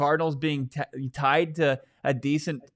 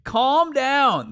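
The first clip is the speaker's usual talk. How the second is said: high, loud mock telling-off; imitated scolding; 10 semitones higher, 5 dB louder than usual. Fans answering his panicked tweets, mock scolding. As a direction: play the people shushing a panicker. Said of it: "people are saying".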